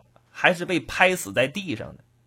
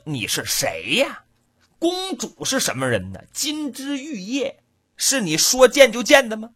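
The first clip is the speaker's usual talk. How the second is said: guard scoffs at the farmer's nerve; mock indignant guard; 2 semitones higher than usual. Guard mocks the farmer wanting to see the princess, indignant. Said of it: "鼻子没气歪了".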